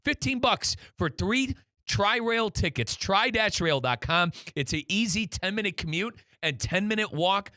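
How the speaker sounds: upbeat radio ad read; sponsor read. Acted. Radio host pitching Tri-Rail to fans, upbeat ad read. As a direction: sell the train ride to the listeners.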